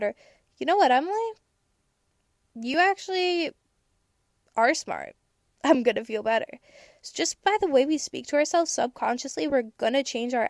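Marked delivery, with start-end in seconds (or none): 0.6-6.6 kind self-talk. Retold or imitated. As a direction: cheer yourself on sweetly. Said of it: "if I was to say".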